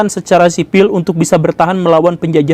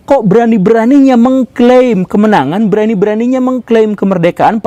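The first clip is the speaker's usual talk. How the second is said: acted indignation, pitched up; indignant challenge; 4 semitones higher than usual. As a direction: challenge them with raised pitch. Acted Japanese man challenging Indonesians.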